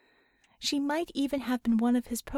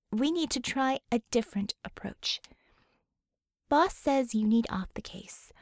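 motherly comfort. Acted. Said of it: "the mama fix mode".

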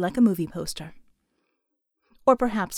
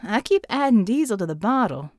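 drawl; 4 dB louder than usual. Acted. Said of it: "Mel drawled".

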